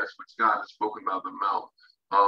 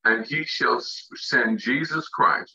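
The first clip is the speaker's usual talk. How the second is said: slow, deliberate, slightly raised scripture reading; 3 semitones higher, slower than usual. Shown as a demonstration. Preacher rereading Acts so listeners catch it, very slow reading. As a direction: draw out each word of the verse. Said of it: "I'm gonna read that very slow".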